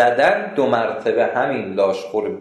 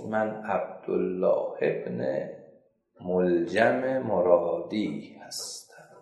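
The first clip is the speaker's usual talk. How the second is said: the damned man answering slowly, lower and softer; slow low confession; 4 semitones lower, 5 dB quieter, much slower than usual. Acted. Cursed man answering the narrator, slow low confession. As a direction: draw out his name like a heavy admission.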